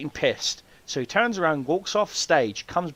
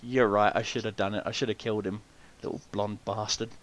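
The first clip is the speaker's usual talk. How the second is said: grudging agreement; 5 semitones lower, 7 dB quieter than usual. Retold or imitated. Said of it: "the guy starts chuckling and goes".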